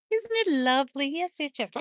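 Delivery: sugary, sing-song sweet talk; mock lovey-dovey. Mocking how sweet they sound on camera, lovey-dovey. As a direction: play the overly nice couple. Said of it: "lovey-dovey".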